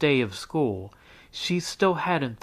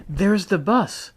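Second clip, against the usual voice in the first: mom announcing bus; 7 semitones higher, 4 dB louder than usual. A narrator's reading.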